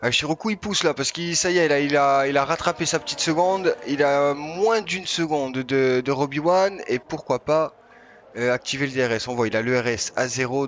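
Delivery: lively play-by-play race call; motorsport commentator. Acted. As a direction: call the chase as it closes in. Live race call of a battle.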